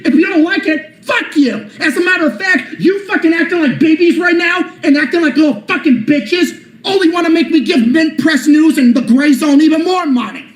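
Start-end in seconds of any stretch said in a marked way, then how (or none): 0.0-8.8 cursing through laughter; laughing angry rant. Real, not acted. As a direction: laugh while you yell insults. Laughing while cursing out critics.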